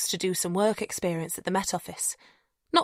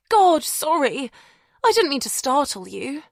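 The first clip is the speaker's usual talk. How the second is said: startled apology; 6 semitones higher, 3 dB louder than usual. A narrator's reading. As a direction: apologise in a rush of alarm. Zoe apologising after crash.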